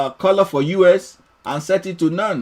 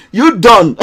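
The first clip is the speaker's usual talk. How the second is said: mock Welsh; 3 semitones higher, 4 dB louder than usual. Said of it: "that is Welsh, man".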